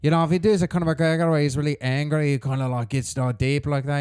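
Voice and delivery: Irish attempt that drifts toward Scottish; put-on Irish accent. Shown as a demonstration. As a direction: explain it while holding a wobbly Irish accent. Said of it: "Nah, you sound Scottish".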